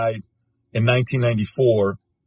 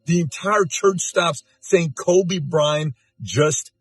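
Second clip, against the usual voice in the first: higher, slow, grief-stricken recounting; grieving retelling; 8 semitones higher, slower than usual. Retold or imitated. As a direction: let the shock break through, slowly. Retelling church grief, slowed.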